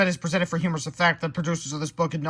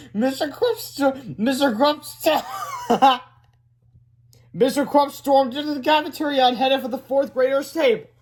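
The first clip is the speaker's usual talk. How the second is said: laughing while reading; 9 semitones higher, 5 dB louder than usual. Real, not acted. Narrator still laughing.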